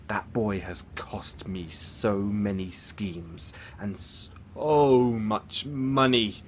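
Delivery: drawn-out theatrical lament, building on the money; exasperated lament. Acted. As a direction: stretch it out in exasperation. Bemoans costly failed schemes.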